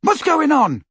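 high, loud call across; anxious shout. A narrator's reading. Ron demands news through the wall, shouting. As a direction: shout the question from afar. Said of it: "shouted Ron again".

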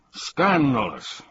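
mild, drawn-out outraged shout. A narrator's reading. King outraged at dinner after the banquet, shouting. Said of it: "shouted the king".

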